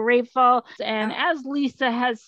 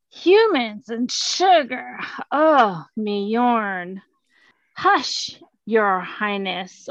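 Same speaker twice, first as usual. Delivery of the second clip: pompous cat king; slower than usual. Acted. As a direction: boom it out like a spoiled king. Cat king story dialogue.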